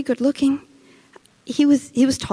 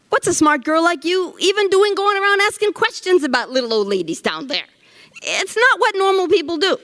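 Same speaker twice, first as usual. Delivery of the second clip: higher-pitched, affronted reproach; indignant scolding; 5 semitones higher than usual. Acted. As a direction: tell off a nosy young interviewer. Scolds the interviewer for asking.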